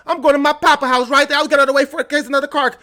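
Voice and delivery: a hint of sweet prairie girl calling papa; lightly voiced prairie girl mimicry; mocking Little House on the Prairie voice. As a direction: lightly play the innocent daughter. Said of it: "You sound like Little House on the Prairie".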